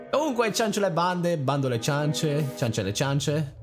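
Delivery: high, slow, playful sing-song; playful mock pronouncement. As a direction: twist the phrase with theatrical flair. Playful tongue-twister intro. (tono teatrale e scherzoso)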